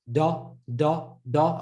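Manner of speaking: "Da" with a plain D and Ah vowel; like the Dal. Shown as a demonstration. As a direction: drill "Da" on an Ah. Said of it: "like the Dal, but on an Ah".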